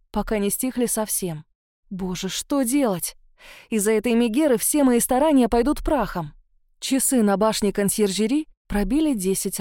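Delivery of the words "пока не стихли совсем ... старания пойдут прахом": ordinary delivery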